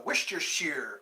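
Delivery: Worcestershire with a clear r, last syllable "sheer"; common pronunciation of Worcestershire. Shown as a demonstration. Vlogger showing how most people say it, Worcestershire ending in "sheer". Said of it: "I think that's how most people say it".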